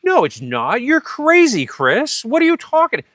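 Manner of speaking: high, loud incredulous retort; scoffing disbelief. Retold or imitated. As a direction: play the guy who thinks you're nuts. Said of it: "the guy's just like".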